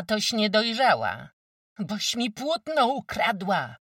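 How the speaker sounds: high, loud furious accusation; angry yell. Acted. Wójt's wife accusing Tereska's mother, furious yell. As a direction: scream the charge at her. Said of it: "wrzasnęła".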